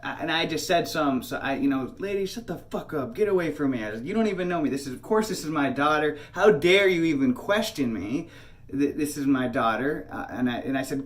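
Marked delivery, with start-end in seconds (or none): 2.0-10.1 retold indignant outburst, somewhat raised; moderately heated re-enacted anger; losing it. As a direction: tell off a stranger in heated protest. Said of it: "I'm losing it".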